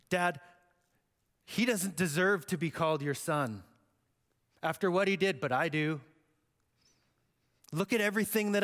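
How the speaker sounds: how dare you, Dad; indignant older son. Acted. Older son argues with father.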